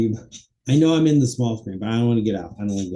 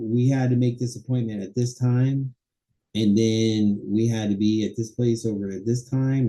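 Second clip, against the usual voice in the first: acted chat. Shown as a demonstration. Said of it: "Topic organization".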